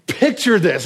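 ordinary talk

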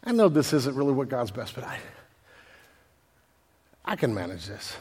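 soft, low inner voice; quietly talking yourself into it; hushed excuse to yourself; self-reassuring murmur. Acted. What we begin to tell ourselves.

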